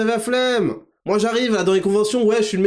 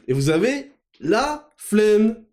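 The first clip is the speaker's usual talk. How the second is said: mocking drawl; 3 semitones higher, slower than usual. Drawn-out mocking flemme.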